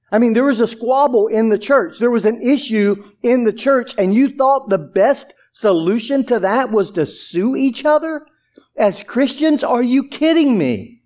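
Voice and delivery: incredulous rebuke, rising in pitch; can't believe what they've done; utter disbelief. Acted. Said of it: "showing Paul's utter disbelief".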